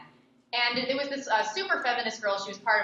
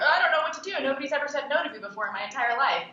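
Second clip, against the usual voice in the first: higher, louder whiny mock sob; imitating a crying feminist, hammed-up and higher; 5 semitones higher, 4 dB louder, faster than usual. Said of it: "And she's like".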